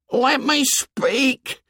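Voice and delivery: put-on high, slow, pleading boy voice; Piggy pleading. A narrator's reading. Piggy calls out over the booing tribe, pleading high. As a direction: beg to be heard over the crowd.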